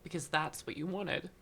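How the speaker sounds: retelling through real tears, pitched high; choked-up storytelling, high and easing down; tearful. Real, not acted. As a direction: keep going while trying not to cry. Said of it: "why am I crying?".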